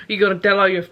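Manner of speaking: attempted Irish accent, quickly abandoned. Horse man teasing her, in an attempted Irish accent. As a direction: have a rough go at an Irish accent. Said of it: "here's my Irish accent".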